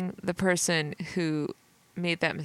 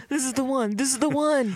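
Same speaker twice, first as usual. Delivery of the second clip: excited agent; 6 semitones higher, 4 dB louder than usual. Retold or imitated. Acting excited FBI agent.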